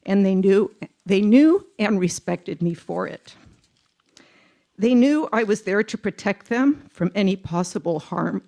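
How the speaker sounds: emotional. Real, not acted. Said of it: "Sorry, I'm very emotional".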